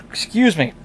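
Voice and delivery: talking through a yawn; words stretched by a yawn. Real, not acted. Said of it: "you can tell I'm still yawning".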